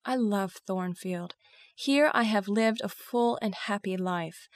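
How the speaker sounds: understated heartfelt confession; earnest, with restrained emotion; deep feeling. Acted. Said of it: "I spoke with deep feeling".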